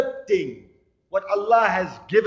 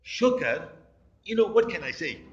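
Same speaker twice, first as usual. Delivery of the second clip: mopey thanks. Shown as a demonstration. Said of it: "He also knows how to get the religious person".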